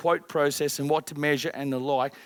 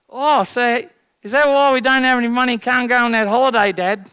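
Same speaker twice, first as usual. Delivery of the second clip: put-on higher, louder accusing child voice; the daughter calls dad out, pitched up; dramatised daughter; 6 semitones higher, 6 dB louder than usual. Daughter blaming dad about the missed holiday, high and loud. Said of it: "Now, I'm dramatising".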